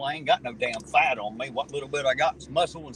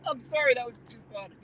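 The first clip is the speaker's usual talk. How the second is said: laughing; 6 semitones higher than usual. Real, not acted. Cracking up at a joke.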